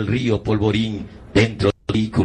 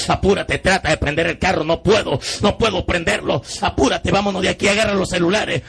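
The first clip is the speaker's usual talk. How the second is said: higher-pitched, urgent acted exchange; retold panic; 6 semitones higher than usual. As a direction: urge them to hurry, voice climbing. Acts out youths panicking to flee.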